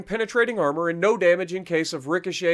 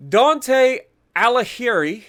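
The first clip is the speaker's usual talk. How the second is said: slow, higher, louder Italian-accented name, a bit hammy; Italian accent attempt; 4 semitones higher, 5 dB louder, slower than usual. Shown as a demonstration. Gamer showing viewers his best Italian accent, mock Italian. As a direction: roll out Dante Alighieri in a mock Italian accent, slowly. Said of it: "that's the best I've got".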